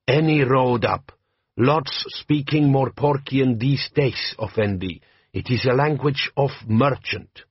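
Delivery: put-on slow, heavy-accented bandit chief; lightly voiced warlord, measured and proud; Jabbar, desert chieftain. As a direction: lean into a slow Klatchian drawl. Jabbar speaking.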